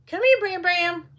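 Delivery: high coaxing call to the cat. Real, not acted. Calling the cat Bramble over, high and coaxing.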